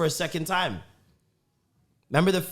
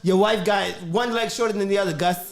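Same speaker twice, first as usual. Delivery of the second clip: Eddie Murphy character voice; 6 semitones higher than usual. Retold or imitated. Quoting the backyard bit to Gus, high comic whine. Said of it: "'Cause he's like".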